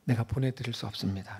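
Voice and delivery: quiet, desperate pleading to God; pleading confession. Pretend. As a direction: beg for a blessing, voice sinking. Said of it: "라고 말하죠".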